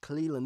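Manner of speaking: "Cleveland" with the V dropped, like Clee-lind. Retold or imitated. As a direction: show "Cleveland" minus its V. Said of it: "They don't say the V".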